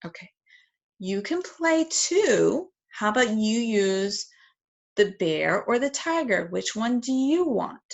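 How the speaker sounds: inviting parent. Shown as a demonstration. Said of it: "I'm gonna say".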